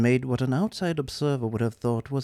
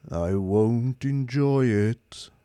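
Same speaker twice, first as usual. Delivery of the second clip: slow, lifeless robot voice; bored superior machine; depressed robot drones on; gloomy robot; 4 dB louder, much slower than usual. Acted. Marvin's voice.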